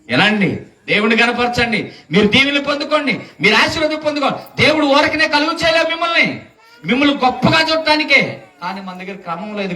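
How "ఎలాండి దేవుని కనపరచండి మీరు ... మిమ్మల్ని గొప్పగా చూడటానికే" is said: higher, ringing call to the congregation; preaching exhortation. Acted. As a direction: lift the hall, urging them to come.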